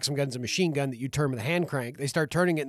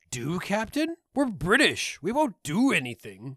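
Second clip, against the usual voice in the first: stiff British officer; 2 semitones higher, slower than usual. Retold or imitated. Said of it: "the response is".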